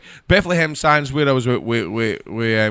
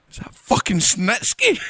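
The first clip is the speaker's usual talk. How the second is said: disbelief; 8 semitones higher than usual. Retold or imitated. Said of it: "and I'm going".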